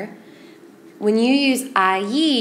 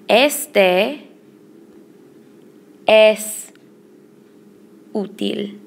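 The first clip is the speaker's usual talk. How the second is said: slow teaching demo with long pauses; word by word; much slower than usual. Shown as a demonstration. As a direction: set each word apart for learners to follow. Teacher models the phrase word by word.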